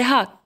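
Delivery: "ha" with a sounded, plain h; teacher showing H read as "ha". Shown as a demonstration. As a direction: say "ha" with the h audibly aspirated. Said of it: "ننطقوه ها".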